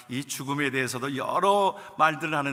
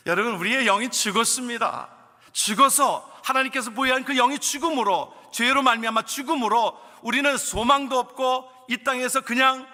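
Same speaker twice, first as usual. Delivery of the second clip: raised, high, louder preaching voice; fervent preaching; 8 semitones higher, 5 dB louder than usual. Real, not acted. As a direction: preach it with full conviction. Preaching at full force. (힘찬 설교 톤)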